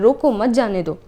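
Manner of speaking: रोको emphatic with falling tune, then मत जाने दो; stress on रोको. Shown as a demonstration. Teacher demonstrates the comma, stressing रोको, keeping मत जाने दो together. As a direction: stress रोको and pause before मत. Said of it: "रोको हम लोग बोल रहे हैं तेज से".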